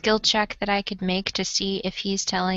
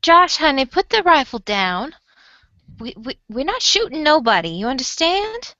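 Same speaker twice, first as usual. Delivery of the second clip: pleading companion; 5 semitones higher than usual. Acted. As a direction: talk him down fast. Player calms armed companion in character.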